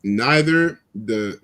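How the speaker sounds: halting, interrupted by hiccups. Real, not acted. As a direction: talk through the hiccups. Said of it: "sorry, I got the hiccups".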